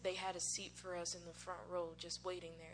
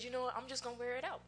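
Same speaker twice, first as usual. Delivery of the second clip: louder and higher, half-joking bravado; playful defiance, raised and loud; defiant resolve; 6 semitones higher, 5 dB louder than usual. Retold or imitated. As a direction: declare it like you've decided, a touch hammed-up. Retelling her defiant decision.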